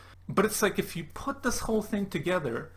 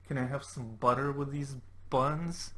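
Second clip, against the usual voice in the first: mock leer. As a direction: ham up a creepy pickup line. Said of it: "he's like".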